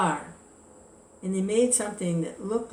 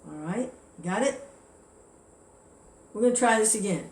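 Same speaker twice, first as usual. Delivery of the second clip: mildly annoyed scolding. Retold or imitated. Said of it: "he gets a little angry".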